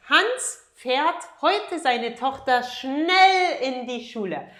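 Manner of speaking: slow model sentence. Shown as a demonstration. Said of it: "teacher reads model sentence slowly".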